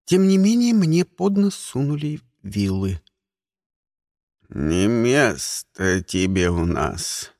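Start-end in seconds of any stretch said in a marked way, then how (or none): 4.5-7.3 low, slow creaky elder; old egg with pitchfork warning the stranger; old man's voice. Acted. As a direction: speak like a threatening old man. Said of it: "старческим голосом произнесло яйцо".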